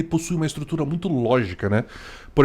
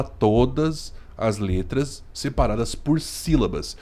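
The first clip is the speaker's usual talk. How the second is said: syllable by syllable; 2 semitones lower, 3 dB quieter, slower than usual. Shown as a demonstration. Illustrating syllable-by-syllable speech.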